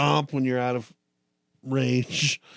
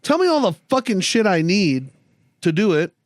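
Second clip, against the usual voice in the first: mock exasperation; 7 semitones higher than usual. Voiced annoyed kid helping parents.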